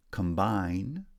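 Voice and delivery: "combine" with the second syllable strong; second-syllable stress. Shown as a demonstration. Teacher showing stress patterns, second-syllable stress on "combine". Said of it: "primary stress on the second syllable in combine".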